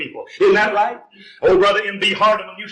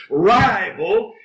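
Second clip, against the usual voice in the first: rival stretched out and lifted at the end; stress on rival; 3 semitones higher than usual. Shown as a demonstration. Preacher to congregation, stressing the word rival with a lift. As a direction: lean into the word rival so it stands out. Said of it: "I want to emphasize that word".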